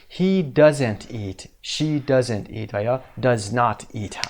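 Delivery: slow, deliberate doesn't; slow model sentence. Shown as a demonstration. Teacher showing third person to class, slow. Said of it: "سوم شخص".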